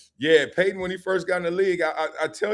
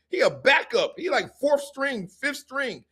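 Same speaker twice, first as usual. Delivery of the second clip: high, disbelieving protest; incredulous; 10 semitones higher, slower than usual. Retold or imitated. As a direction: scoff at the backup. Players doubting Jared Allen.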